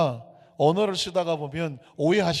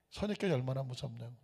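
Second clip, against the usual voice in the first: much softer, quick echo; hushed echo; 5 semitones lower, 10 dB quieter, faster than usual. Acted. Pastor driving home the point to the congregation, hushed echo. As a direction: repeat it low and quietly. Echoed softly.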